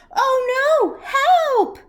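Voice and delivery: high, loud panicked cry; high, loud shout for help with a laugh. Acted. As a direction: yelp as you're dragged down. Big Al stuck, falling.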